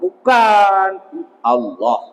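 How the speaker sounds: ordinary talk, nothing marked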